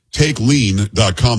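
slow ad tag. Acted. Host-read ad, slowly spelling web address.

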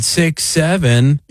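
slow, drawn-out six seven; drunk guy's answer. Retold or imitated. Drunk guy answering the cops, slow mock reply. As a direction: stretch it like a joke. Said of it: "He said".

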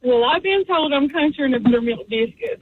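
country Southern accent. Real, not acted. Caller telling radio hosts how country she is, in country Southern accent. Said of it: "you're quite country".

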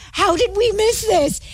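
retold dismay. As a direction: wail at the mistake. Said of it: "Oh my gosh, I feel so bad".

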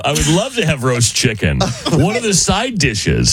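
mock eager reply. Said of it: "this person who texted us responded".

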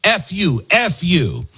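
a mild, hammed-up mock scream; retelling a candidate screaming at a beachgoer, mildly mock yelled. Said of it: "Basin screams".

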